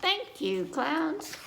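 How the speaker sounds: put-on chirpy grateful child; Peppa voice. Peppa thanking the clouds, high childlike voice. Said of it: "said Peppa".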